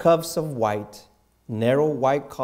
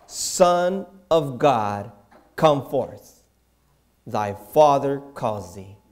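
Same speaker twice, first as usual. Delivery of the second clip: slow, loud summons, drawn out; commanding call; 5 dB louder, slower than usual. Acted. Angel summoning the Son of God, slow loud call. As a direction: call him forth from the grave like an angel. Angel calls Jesus from grave.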